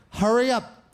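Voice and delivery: bully taunt. Retold or imitated. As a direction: jeer like a bully.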